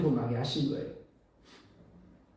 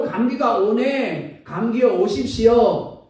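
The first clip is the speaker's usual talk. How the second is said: mock welcoming of a cold; 4 semitones higher, slower than usual. Mocking wrong "faith" words.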